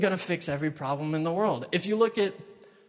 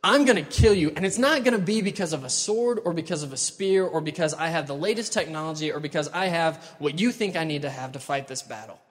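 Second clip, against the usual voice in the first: defiant yell. Retold or imitated. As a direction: fling the threat back, then let it fall. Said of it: "that he's yelling at this Philistine".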